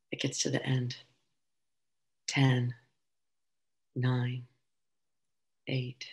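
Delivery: calm meditation voice with long pauses; unhurried, measured guiding through an imagined launch; guided meditation. Acted.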